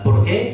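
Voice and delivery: "por qué" high, rising sharply on "qué"; pointed question word. Shown as a demonstration. Councillor flagging that his question starts there, high rising "por qué". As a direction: announce "¿Por qué?" as an unmistakable question, voice jumping up. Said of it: "Empieza por ¿por qué?".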